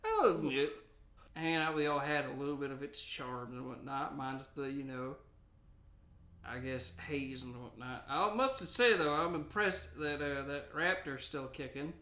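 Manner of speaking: a hint of a grizzled gold miner; old prospector voice. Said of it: "and then there's Old Prospector".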